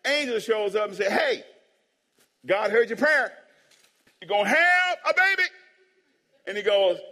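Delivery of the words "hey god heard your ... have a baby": loud, high proclamation, climbing at the end; excited angel's announcement. Acted. Angel to Zechariah in the temple, loud and excited.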